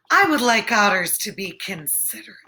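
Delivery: quick unvoiced whisper; fast whispered aside. Rabbit character speaks.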